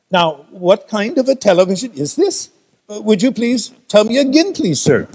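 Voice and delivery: put-on puzzled, polite Indian accent; asking again in an Indian accent. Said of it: "with an Indian accent".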